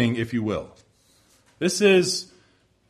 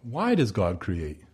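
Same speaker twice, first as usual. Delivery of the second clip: a quiet, reflective repeat; softer echo; 6 semitones lower, 5 dB quieter than usual. Acted. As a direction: repeat the question slow and lower, as if pondering. Question repeated to linger.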